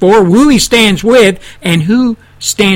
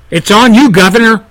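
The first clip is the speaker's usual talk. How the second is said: jab the blame at him; pissed off. Real, not acted. Radio host scolding the governor, pissed off and pressing. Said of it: "I'm a little pissed off right now".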